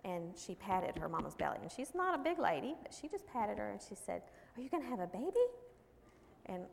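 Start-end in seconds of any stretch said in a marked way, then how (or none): 4.6-5.5 put-on higher-pitched little kid question; three-year-old child. Three-year-old asks her mom about her belly, child voice. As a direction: ask it like a curious small child. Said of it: "her little three-year-old".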